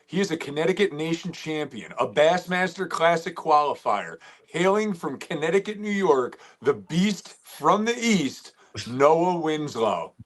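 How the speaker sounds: hype-man intro, drawing out the final billing; announcer introduction. Pretend. Co-host introducing the guest to viewers, announcer style.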